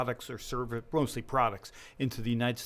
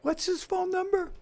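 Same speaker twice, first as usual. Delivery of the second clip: higher, eager rush of questions; retold eagerness; 4 dB louder than usual. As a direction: burst in eager after a sleepless night. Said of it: "and I say".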